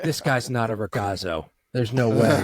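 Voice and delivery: slow, laughing put-on judgment; mock verdict through laughter. Locals in line judging the tourist, laughing mock verdict. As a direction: pronounce it like a crowd's ruling, cracking up.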